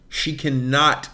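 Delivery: slow, weighted "cannot" with every syllable leaned on; emphatic stress on cannot. Real, not acted. Telling her co-host how short the woman was, slow stress on "cannot". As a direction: hammer "cannot" so she sounds truly tiny. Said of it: "when I say she cannot".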